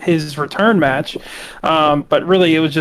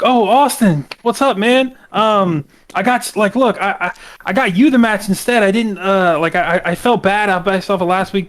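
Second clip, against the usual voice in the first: higher, sheepish buddy voice, lightly done; Grayson Waller impression; 4 semitones higher than usual. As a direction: sweet-talk your tag partner, slightly higher. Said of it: "Grayson Waller's like".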